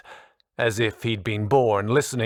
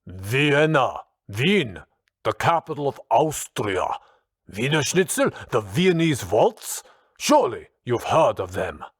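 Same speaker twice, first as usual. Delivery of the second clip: put-on exasperated Austrian accent, pitched up; contained exasperation; 4 semitones higher, 3 dB louder than usual. A narrator's reading. Austrian teacher listing Viennese things to baffled colleague, exasperated. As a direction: spell it out, barely holding in exasperation. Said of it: "his exasperation".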